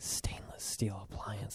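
sultry, breathy, hushed whisper, almost aroused. Imitating how others say stainless steel appliance, in a breathy whisper. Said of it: "They're like whispering it, like it's like it's like arousing".

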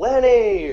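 loud, high-pitched yell.

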